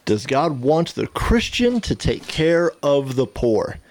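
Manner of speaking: slow, deliberate repeat of a question; pondering repeat. Real, not acted. Guest weighing the host's question before answering, pondering slowly. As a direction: mull it over word by word, slowly.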